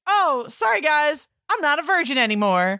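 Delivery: put-on high, breezy teenage girl apology; playful high-pitched girl quote; mock girl voice. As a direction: lightly voice the sister shrugging it off. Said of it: "she's like".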